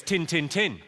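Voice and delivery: "tin, tin, tin" run together, Yorkshire-style; Yorkshire dialect. Shown as a demonstration. Comedian demonstrates a favourite phrase, "tin, tin, tin" in Yorkshire dialect. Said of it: "My favourite Yorkshire phrase is".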